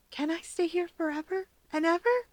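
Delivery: put-on a small boy brightening; eager child asking to stay; perking up. A narrator's reading. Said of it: "Perking up".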